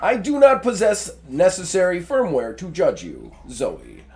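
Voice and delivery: stiff, even machine voice; lightly voiced speech robot. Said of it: "Is that better? Better robot, you think?".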